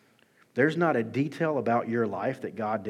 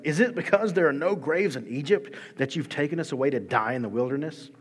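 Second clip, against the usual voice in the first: mock yell; 4 semitones higher, 4 dB louder than usual. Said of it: "they yell at Moses".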